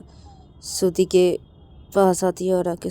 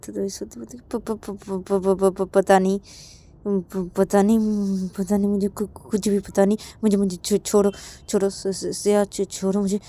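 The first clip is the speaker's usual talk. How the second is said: stuttering plea; 5 dB louder than usual. Acted. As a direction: stammer let me go. Shruti begs to be let go. (हकलाती हुई मिन्नत)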